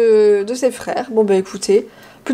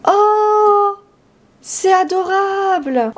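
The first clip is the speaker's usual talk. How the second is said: high, slow gush of C'est adorable; drawn-out delighted Oh, adorable; 9 semitones higher, much slower than usual. Real, not acted. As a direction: melt over something cute. Gushing over the decoration.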